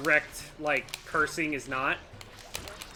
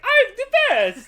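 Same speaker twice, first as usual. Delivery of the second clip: high, loud cartoon plumber boast; Mario voice; 13 dB louder, slower than usual. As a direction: shout it like cheerful Mario. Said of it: "he said it in a Mario voice".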